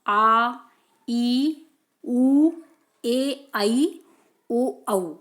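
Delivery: each vowel held long and clear, as a teacher demonstrates; long vowels drawn out. Shown as a demonstration. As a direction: stretch each vowel sound to double length. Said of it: "अधिक समय जिसमें लगता है". (हर स्वर को लंबा खींचकर बोलना)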